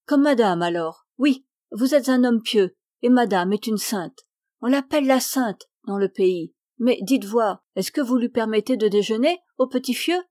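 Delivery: a hint of a wary old countrywoman chattering on; old servant woman. La vieille servante Jacquine parle. (la vieille servante, légèrement plus forte)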